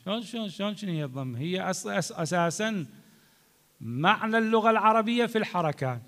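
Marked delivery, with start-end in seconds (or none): 0.1-1.4 fast, soft puzzled asking; a student fumbling the question quickly; imitated questioner. Teacher voices a confused student, quick and soft. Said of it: "هسه قد واحد يقول".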